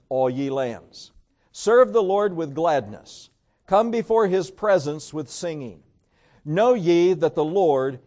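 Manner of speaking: slow, measured congregational reading; scripture reading aloud. Acted. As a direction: lead the psalm in deliberate phrases. Reads psalm aloud with congregation.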